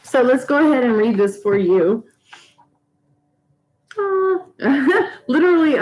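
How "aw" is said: moved aww. Real, not acted. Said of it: "I'm tearing up".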